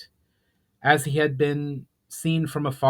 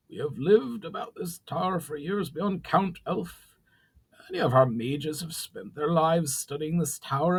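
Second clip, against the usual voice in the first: goblin chief; 5 semitones higher than usual. A narrator's reading. Brawl voiced as goblin.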